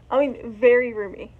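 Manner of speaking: speaking through costume head; enclosed echoey mask voice; muffled inside mask head. Real, not acted. Seen 1: Full fursuit skull head worn over face throughout the speech.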